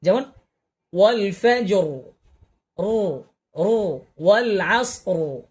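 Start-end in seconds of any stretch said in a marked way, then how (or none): 2.8-4.0 a short rolled "রু", drawn out slowly at the end; ra sound demo. Shown as a demonstration. Teacher demonstrating the ra echo sound, slow rolled "রু". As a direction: say "রু" with a light roll, slowing down. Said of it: "এই যে রয়ের দেখছেন".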